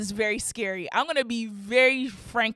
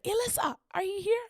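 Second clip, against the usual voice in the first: calling out; 10 semitones higher than usual. Retold or imitated. Calling out to sister.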